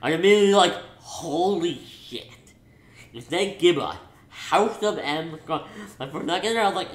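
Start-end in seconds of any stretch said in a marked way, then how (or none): 1.0-5.7 slow, stunned retold gasp of awe; awed disbelief. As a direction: drag it out in disbelief.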